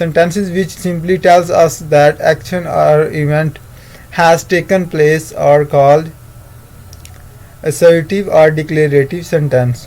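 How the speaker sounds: slow, word-by-word dictation to students; dictation reading. Acted. Teacher dictating the definition to the class, very slow and measured. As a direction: read it out slowly so they can copy.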